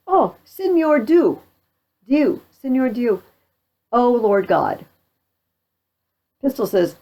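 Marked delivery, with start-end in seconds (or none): 0.1-4.9 high, drawn-out appeal to heaven; acted pleading. Captured French soldier calls on God, high and imploring. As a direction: play a captive calling on God.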